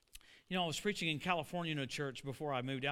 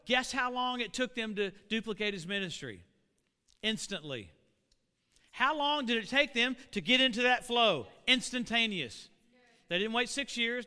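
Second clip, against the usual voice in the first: raised, forceful pulpit teaching; impassioned preaching; 4 semitones higher, 7 dB louder than usual. Real, not acted. Preacher showing how fast the twelve duplicated the ministry, forceful preaching. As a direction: drive each point home to the congregation.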